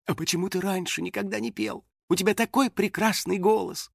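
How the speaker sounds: high, coquettish smiling voice; flirtatious. A narrator's reading. Анна flirts with her ex, coquettish. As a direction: lift the pitch and tease sweetly. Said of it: "с кокетливой улыбкой спросила".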